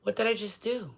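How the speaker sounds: soft, stunned question; hushed realization. Acted. Betrayer realizing what they did, hushed and stunned. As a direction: ask it to yourself in shock.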